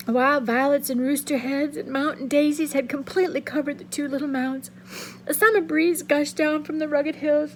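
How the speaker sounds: steady reading-aloud voice, lively for the figures; story narration. A narrator's reading. Teacher reading a novel chapter aloud to students, expressive narration. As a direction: read the chapter to the class like a storyteller.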